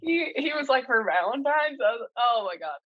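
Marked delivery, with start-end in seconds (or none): 0.8-1.8 lightly goofy, higher-pitched mimicry; mock a stranger's goofy question; goofy imitation. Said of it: "it was so goofy".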